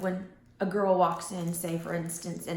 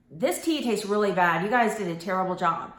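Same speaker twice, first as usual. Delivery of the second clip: louder, accusing complaint; attacking tone; 5 dB louder than usual. Shown as a demonstration. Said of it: "it sounds attacking".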